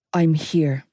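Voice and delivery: low, steady reassurance; calm her with sure confidence; confident. Acted. Joey steadies her with confidence. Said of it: "Joey's voice was full of confidence".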